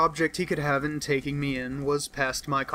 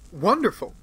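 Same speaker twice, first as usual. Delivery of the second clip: excited exclamation; 3 semitones higher, 3 dB louder than usual. Acted. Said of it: "I ejaculated".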